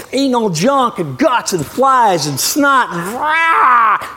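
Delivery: slow, growling monster voice ending in a roar; a gory horror-movie vulture roar; mock zombie vulture. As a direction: ham up a gross scavenger tearing into guts. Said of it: "like Night of the Living Dead".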